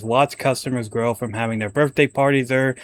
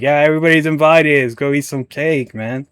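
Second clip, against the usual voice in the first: excited welcome; 3 semitones higher, 4 dB louder than usual. Retold or imitated. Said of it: "I would have been like".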